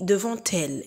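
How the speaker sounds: "devant elle" linked with a t, devan tel; "devant elle" with the t sounded; with liaison. Shown as a demonstration. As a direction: carry the t of "devant elle" over. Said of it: "et non pas devant elle".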